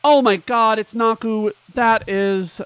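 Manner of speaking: loud, high burst of delight; excited gasp. Real, not acted. Streamer thrilled by a viewer's donation, excited outburst. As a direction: shout the name in happy shock.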